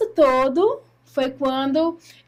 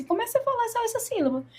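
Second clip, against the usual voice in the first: softer, higher encouraging instruction; retold gentle coaching; 10 semitones higher, 5 dB quieter than usual. Friend coaches her on the syllable, retold gentle instruction. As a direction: gently nudge a beginner, as quoted.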